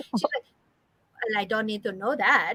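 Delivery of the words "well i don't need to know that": put-on Cuban-accented woman's voice, impression. Retelling a comedian's bit about his mom and house work: imitating a comedian's Cuban mom. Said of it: "he makes an impression of her".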